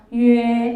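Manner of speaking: 유에 called out loud, clearly gliding to 에; model syllable. Shown as a demonstration. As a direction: shout 유에 for the class to copy. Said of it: "유에라고 읽으셔야 돼요". (크게 외치는 유에 시범)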